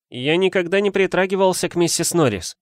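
high, insistent protest; громко. A narrator's reading. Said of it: "громко сказал Гарри". (громко возражать, повысив тон)

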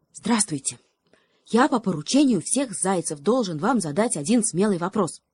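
a brave but scared messenger; nervous hare. Acted.

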